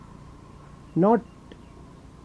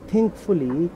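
"think fully" with the accent on "fully" rather than "think"; stress on "fully"; 3 semitones lower, 4 dB quieter than usual. Shown as a demonstration. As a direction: let "fully" carry the phrase, keep "think" lighter. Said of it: "the stress is on fully, not on think".

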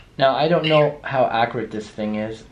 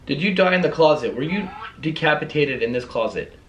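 calling out; 5 semitones higher than usual. Real, not acted. Investigator to the spirit in the closet, calling out. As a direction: put the question out to the room.

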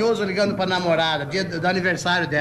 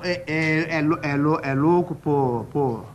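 stutterer; slower than usual. Acted. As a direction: stumble on louco.

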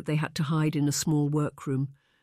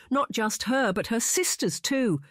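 savage wailing; 6 semitones higher than usual. A narrator's reading. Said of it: "Missus Wickliffe cried savagely".

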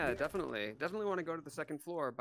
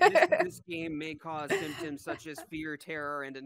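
mock disclaimer; 10 semitones higher, 4 dB louder, slower than usual. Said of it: "could we get a disclaimer or P S A".

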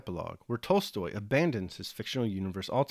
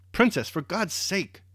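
high, loud, drawn-out plea; desperate appeal, slow and forceful; urgent exclamation; 9 semitones higher, 6 dB louder, slower than usual. A narrator's reading. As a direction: call out to stop someone leaving. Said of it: "he exclaimed".

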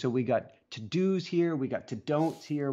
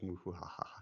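silly noise; 6 semitones lower, 12 dB quieter than usual. Retold or imitated. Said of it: "and I'm like".

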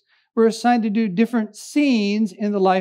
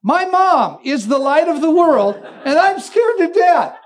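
blurts out; 5 semitones higher, 3 dB louder than usual. Retold or imitated. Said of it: "little Billy blurts out".

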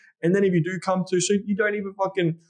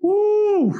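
playful whoop; slower than usual. Shown as a demonstration. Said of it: "another thing I say, I'm like".

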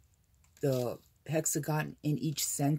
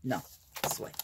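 whispered correction; 5 semitones lower, 4 dB quieter, much faster than usual. Real, not acted. Correcting herself.

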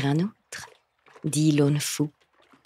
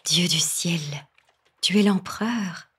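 higher, astonished exclamation; startled cry; 3 semitones higher than usual. Acted. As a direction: gasp it out in surprise. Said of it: "s'écria la jeune fille".

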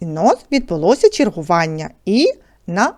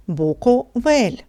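slowly spelled out; 3 semitones higher, much slower than usual. Shown as a demonstration. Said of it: "Склади слово з поданих слів".

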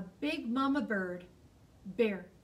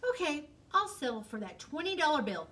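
laughing fox; 4 semitones higher, faster than usual. Acted. Fox closes the sale.

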